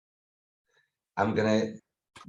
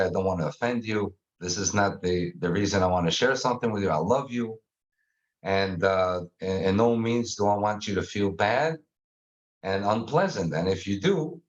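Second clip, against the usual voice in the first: calm normal tone; 5 semitones lower than usual. Shown as a demonstration. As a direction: speak gently to reassure a loved one. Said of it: "I wanna talk in a very normal tone".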